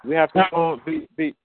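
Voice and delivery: choppy, cutting-out phone call; words dropping out on a bad line; breaking up phone line. Real, not acted. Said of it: "you're cutting up there".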